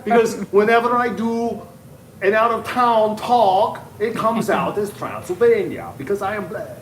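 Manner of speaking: slow, loud mock Transylvanian accent, laughing through it. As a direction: drag the words out like a campy Count. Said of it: "do it in your Transylvanian voice".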